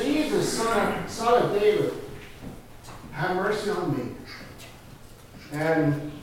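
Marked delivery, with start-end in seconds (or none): 0.0-4.2 beggar's cry. Acted. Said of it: "I just yelled out louder".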